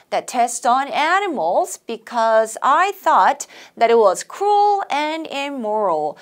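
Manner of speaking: slow, phrase by phrase; chunked model reading. Shown as a demonstration. Teacher chunking a sentence for students, slow. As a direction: read in meaning chunks for learners. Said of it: "의미 단위로 끊어갑니다".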